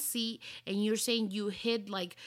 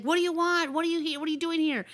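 much higher, louder, fast angry demands; furious yell; 8 semitones higher, 4 dB louder than usual. Retold or imitated. Stranger woken up shouting at the woman who found her, furious. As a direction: bark the questions like she's outraged. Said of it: "she was all offended and pissed off at me".

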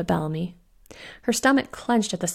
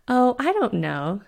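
drawn-out mock innocence; sarcastic; 4 semitones higher, slower than usual. Fiona to Bellamy, mocking his excuse, sarcastic. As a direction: lay the sarcasm on slowly.

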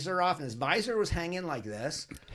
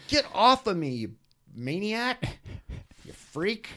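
mock yell; 5 semitones higher, 3 dB louder, slower than usual. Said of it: "I'm, like, yelling at him".

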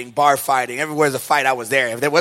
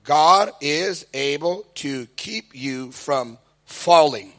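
reading scripture; 2 semitones lower, much slower than usual. Retold or imitated.

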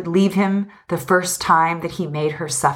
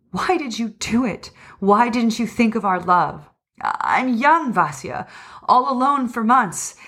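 higher-pitched, agitated reproach; distraught outburst; 5 semitones higher than usual. Acted. Lovers quarrel over his betrayal: distraught outburst. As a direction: let the hurt push the voice up.

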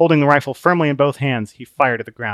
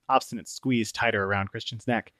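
ordinary delivery

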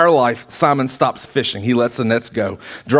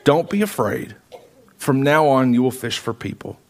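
gently reassuring, settling lower; loving, calm; 3 semitones lower than usual. Acted. Jesus reassures kneeling Simon, mildly loving and calm. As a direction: reassure with understated tenderness. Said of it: "very lovingly says".

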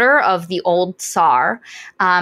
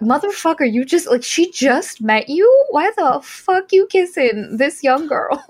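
indignant raised voice; mock outrage; 8 semitones higher than usual. Friend voicing her outrage at the kiss, high and indignant. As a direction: scold him in mock outrage. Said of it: "and I'm like".

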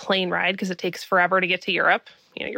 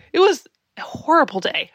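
laughing through it, higher and louder; 7 semitones higher, 3 dB louder than usual. Real, not acted. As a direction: laugh it off as you say it. Laughing at the memory.

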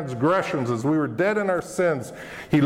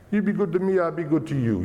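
light mock mafia boss, rising on You; lightly hint at a Mafia deal-maker; Italian mafia; 3 semitones higher, faster than usual. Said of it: "Sound like sort of a Italian mafia".

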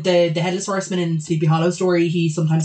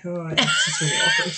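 squeaky awkward parent. Retold or imitated. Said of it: "the parents go like".

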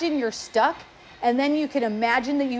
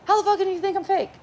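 much higher, rushed indignant line; fast outrage; 8 semitones higher, faster than usual. Shown as a demonstration. Showing how fast the angry thought hits, rushed. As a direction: rattle it off at speed. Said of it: "faster than I could say it".

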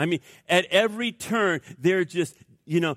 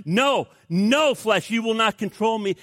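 firm rebuke; 5 semitones higher, 4 dB louder than usual. Acted. Believer rebukes the flesh.

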